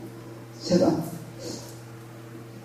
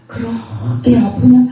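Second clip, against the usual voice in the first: "그렇게 아프냐?" drawn out slowly, gently rising on 아프냐; slow, gentle question from a loving father; tender, slow; slower than usual. Shown as a demonstration. God gently asks his weeping daughter, slow and tender. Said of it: "아니에요".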